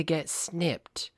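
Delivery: conspiratorial whisper; hushed aside about the dog. Acted. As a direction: whisper it like a secret.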